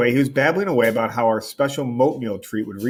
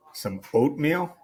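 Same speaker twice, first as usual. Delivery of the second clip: incredulous echo; 3 semitones higher, 4 dB quieter, slower than usual. Acted. Steven repeats the request in disbelief.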